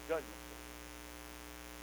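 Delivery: "judgment seat" whispered, slow and unvoiced; awed whisper. Real, not acted. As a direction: breathe "judgment seat" in awe, very slowly. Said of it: "Oh, my goodness".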